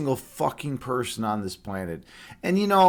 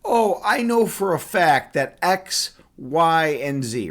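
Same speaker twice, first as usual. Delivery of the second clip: higher, slow, emphatic know-it-all; mock dogmatic; 4 semitones higher, 3 dB louder, slower than usual. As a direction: lay down each point as absolute fact, slowly. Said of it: "come up here dogmatic and be like".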